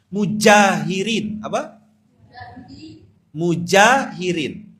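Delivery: Mujahirin said slowly and loud, each syllable clear; stressed Mujahirin. Shown as a demonstration. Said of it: "Kan ada muhajirin".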